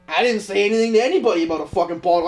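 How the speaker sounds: fast, rising mock protest; indignant retold denial. To the buyer's dad, a fast indignant denial. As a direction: protest the pothole lie fast.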